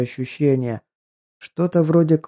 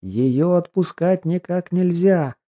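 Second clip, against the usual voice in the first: inner voice yelling; 6 semitones higher, slower than usual. Acted. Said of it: "вдруг буквально завопил".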